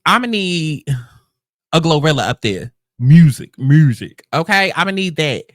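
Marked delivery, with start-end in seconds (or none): 3.0-4.2 calling out. Real, not acted. Calling for the music.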